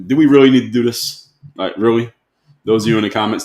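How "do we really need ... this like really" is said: exasperated. Real, not acted. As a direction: plead incredulously with the commenters. Fed up with commenters' misreading.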